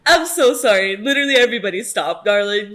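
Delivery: loud, high, delighted fangirling; can barely contain the joy; excited squealing. Real, not acted. Fan reacting to Darla's entrance, loud thrilled squeals.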